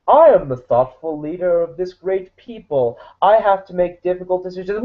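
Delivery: lightly voiced pompous villain; a hint of a self-important evil ruler; cartoon villain. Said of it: "he's cartoonishly evil".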